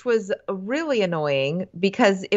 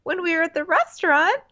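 very high mock-sweet denial; sweetly mad; 13 semitones higher, 3 dB louder than usual. Podcaster as girlfriend insisting to boyfriend, sweetly mad and high. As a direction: squeak up high, pretending not to be mad. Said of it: "that voice that your mom had".

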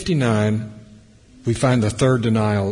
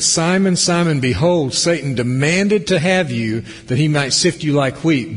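urgent warning; 6 semitones higher, 5 dB louder than usual. Acted. Reading Jesus' urgent warning.

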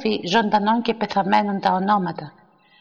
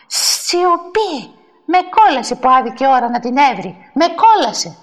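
exasperated hushing; 2 semitones higher, 4 dB louder than usual. Acted. Woman silencing and cursing her rival in church, exasperated. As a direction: demand silence in outraged exasperation.

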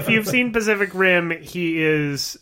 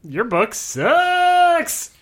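cruel sneer; 10 semitones higher, much slower than usual. Pretend. Acting out Thomas's cruel line.

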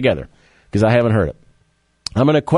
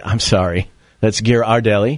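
mock-snooty correction, starting lower; 5 semitones lower than usual. Showing how to correct someone at the brownie counter, snooty. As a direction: correct them with a touch of snootiness. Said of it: "you can get all snooty and say".

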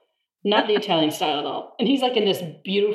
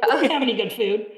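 a mocking whine, rising high at the end; lightly mocking whine that climbs high; mock complaining Germans; 7 semitones higher, faster than usual. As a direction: play the grumbling German classmates, pitched up. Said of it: "They were like".

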